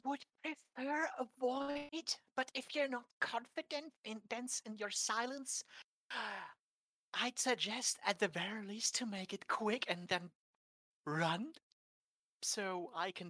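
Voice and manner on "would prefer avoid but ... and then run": Ethan's voice. Acted. Ethan advising Jenny to be quick, in a higher careful voice. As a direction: speak up high and careful like a nervous lad. Ethan in character, far timbre.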